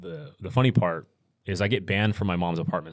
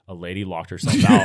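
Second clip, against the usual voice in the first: laughing through the quote; can't hold back a laugh while telling it; giggling as the story gets funny; 9 dB louder than usual. Real, not acted. Retelling mom's call, laughing.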